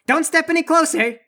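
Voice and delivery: high-pitched guard's warning, lightly yelled. Acted. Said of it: "the guard yells".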